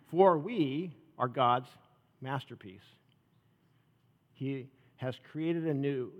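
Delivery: slow, hushed verse reading; scripture reading. Acted. Pastor recites the masterpiece verse to church, slow and reverent. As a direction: let each phrase of the verse land slowly. Reads verse ten aloud.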